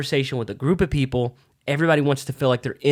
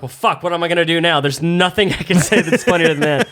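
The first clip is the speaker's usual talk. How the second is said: higher-pitched mock exasperation; stumped comic; 4 semitones higher, 3 dB louder than usual. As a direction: replay being thrown by a heckle, a touch panicked. Retells being stumped by the heckler.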